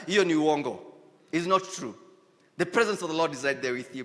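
ordinary talk

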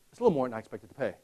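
quiet, quick hesitant complaint; hesitant customer. Retold or imitated. Customer balking at the price, quiet and quick. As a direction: mumble the price worry. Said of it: "You itemize everything".

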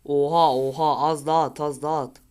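loud urgent yelling; excited shout. Real, not acted. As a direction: shout at the screen, urging a shot. Gamer shouting during match.

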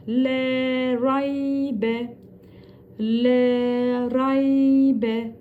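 raybe with a thick, heavy R; Le raybe slow, R kept thick. Shown as a demonstration. Teacher showing the thick Ra to students. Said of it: "Ra da burada kalın okunuyor".

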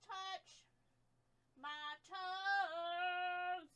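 nearly inaudible murmur; hushed throwaway; very soft aside. Real, not acted. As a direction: breathe the words away. Odd quiet aside.

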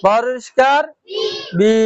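"বরিষ্কার" spelled out with a rising end, then "বি" with an i vowel; syllable demonstration. Shown as a demonstration. Teacher showing learners the i vowel, sounding out "বি". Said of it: "জের বাংলা রস ইকারের মতন উচ্চারণ হয়".

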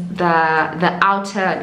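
talking around whitening pen; pen against teeth. Real, not acted. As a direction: lips parted around pen tip. Seen 0: Pen touches front teeth while speaking, lowered by 0.8 s.

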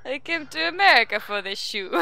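hammy mock-Russian declaration; put-on Russian accent, just for laughs. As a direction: play a Russian newcomer, accent laid on. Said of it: "Your Russian accent is impeccable".

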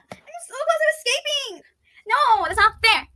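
high, slow whining, half laughing; whiny mock plea. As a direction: whine it like a captive kid. Captured, whining playfully.

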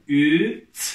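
loud, drawn-out syllable reading for the class; reading syllables aloud. Shown as a demonstration. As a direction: sound out each letter clearly, then blend them loudly. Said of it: "Okuyalım".

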